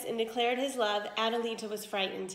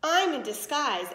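sweet smile; 4 semitones higher, 4 dB louder than usual. Acted. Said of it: "with a twinkle and a sweet smile".

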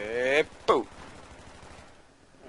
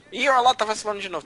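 raging gamer; 5 semitones higher, 7 dB louder, faster than usual. Real, not acted. Callout at teammate.

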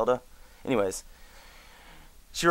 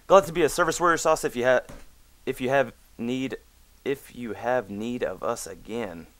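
pompous reread. Shown as a demonstration. Rereading the GM's sign-off to Warrior Sauce, mock grand. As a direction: read it like a pompous herald.

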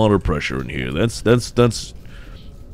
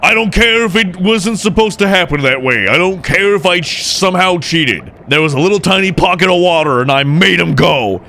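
high-pitched, excited boasting; exultant rant; 7 semitones higher than usual. Real, not acted. Player who somehow cheated the puzzle, exultant rant. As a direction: crow about it, pitched high.

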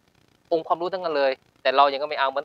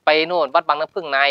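normal talking voice

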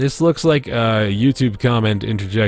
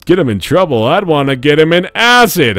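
put-on valley girl; 5 semitones higher, 6 dB louder than usual. Reading game chat in character.

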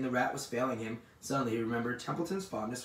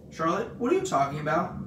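higher, louder alarmed question; crying out; 5 semitones higher, 6 dB louder than usual. A narrator's reading. Pig questions dying spider, crying out. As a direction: cry it out in dismay. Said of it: "he cried".

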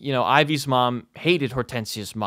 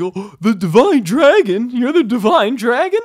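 mock awe; 9 semitones higher, 7 dB louder than usual. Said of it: "the whole thing where it's like".

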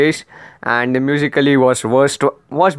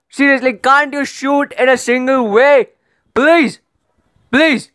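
exasperated rant; 4 semitones higher than usual. Real, not acted. Exasperated rant at the video makers.

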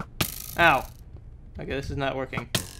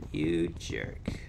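much lower, softer growl of a jerk; deep mock insult; 13 semitones lower, 11 dB quieter than usual. Gamer scolding the game, deep low mock growl. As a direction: drop the voice way down.

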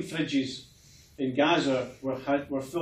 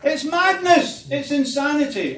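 much higher, louder cry of disbelief; indignant outburst; 12 semitones higher, 7 dB louder than usual. Real, not acted. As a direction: throw it out like a protest cry. Indignant outburst about a court case.

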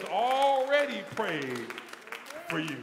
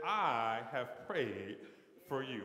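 hushed; 8 semitones lower, 6 dB quieter, slower than usual. Acted. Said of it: "I love the second part".

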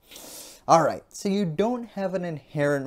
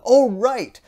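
higher, hammed-up voice slowing on buddy; a put-on, higher voice for the other side; mock conservative voice; 9 semitones higher, 4 dB louder than usual. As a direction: play a smug conservative reining someone in. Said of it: "conservatives are gonna say".

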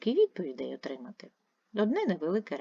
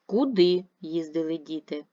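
Куди said louder and stronger; stress on Куди; 4 dB louder than usual. Shown as a demonstration. Teacher models a question, stressing Куди. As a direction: lead with a punched Куди. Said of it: "наголошуючи на одне, е, слово".

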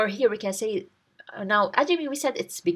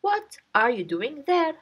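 raised, calling out a challenge; mock shout; 4 semitones higher than usual. Shown as a demonstration. Garden owner calls out to the man, a light mock shout. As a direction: shout it across the garden at him. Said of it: "him and shouts".

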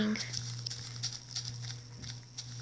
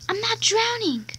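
much higher teasing boast; sing-song taunt; 9 semitones higher than usual. Pretend. Kid boasting underwater, high sing-song taunt.

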